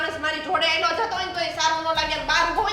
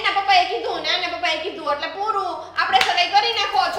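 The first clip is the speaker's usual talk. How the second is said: mimics the in-laws with a loud, scornful edge; angry mocking rant; 2 semitones higher, 5 dB louder than usual. Bride mocking the groom's family to his face, scornful. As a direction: hammer their careless attitude, louder as it goes.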